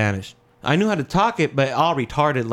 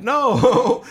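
emphatic no; 10 semitones higher, 6 dB louder than usual. Retold or imitated. Denying in story.

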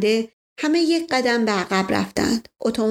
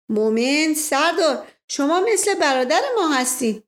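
higher, insistent and charming; playful coaxing Asadollah; 6 semitones higher than usual. Acted. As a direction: sweet-talk them into agreeing. Asadollah coaxes, then flatters wife.

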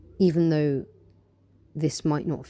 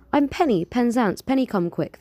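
startled stutter; 8 semitones higher, 4 dB louder than usual. Acted. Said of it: "She stutters, a little startled".

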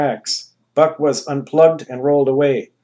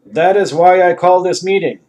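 grand ruler; 5 semitones higher, 8 dB louder than usual. Acted. Anus voice.

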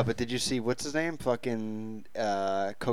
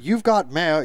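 slow, louder announcing of the line; movie line quote; 2 semitones higher, 7 dB louder, slower than usual. Pretend. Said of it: "You had me at hello".

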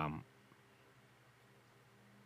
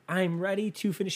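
high-pitched imitation of her yelling; imitated yell, pitched way up; mock yell; 9 semitones higher, 3 dB quieter than usual. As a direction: yell it high but held back in volume. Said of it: "she yelled it".

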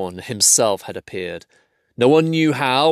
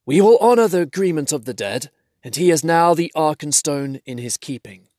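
dwarf king voice; 5 semitones higher than usual. Acted. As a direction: declare it as a dwarf lord. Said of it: "The Dain said".

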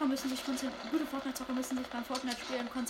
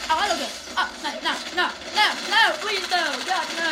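loud desperate nein nein; screaming in panic; 3 semitones higher, 9 dB louder than usual. Real, not acted. Gamer screaming at an attacking player, loud panicked no no. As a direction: scream as you get killed. Enemy attacks him mid-game.

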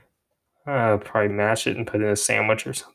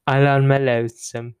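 louder attempt at a British accent; 3 semitones higher, 5 dB louder than usual. Shown as a demonstration. Showing off a British accent as better than Jake's, louder British accent. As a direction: try your British accent with confidence. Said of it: "better British accent than Jake now".

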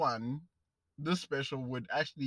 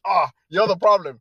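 mock accusing shout; 4 semitones higher, 13 dB louder than usual. Quoting accusers at church.

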